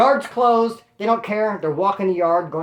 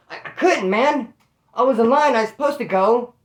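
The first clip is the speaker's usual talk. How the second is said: higher, stammering excuse; retold protest; 4 semitones higher, 4 dB louder than usual. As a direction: imitate a put-out man defending himself. Retold inmate explains himself to homeboys.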